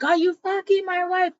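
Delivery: mock jealous outburst; acted jealous accusation. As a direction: spit it out like a paranoid husband. Jealous husband attacks.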